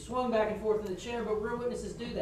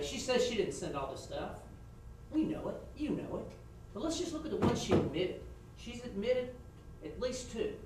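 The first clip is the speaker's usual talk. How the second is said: demo closing argument; 3 semitones higher than usual. Shown as a demonstration. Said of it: "her argument should have been".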